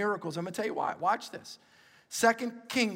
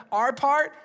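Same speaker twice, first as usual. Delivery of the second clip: loud, rising call to the crowd; preacher's call; 4 semitones higher, 7 dB louder than usual. Shown as a demonstration. Preacher calling the congregation to repeat, loud and rising. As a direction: punch it out so they echo back. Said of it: "Everybody, look".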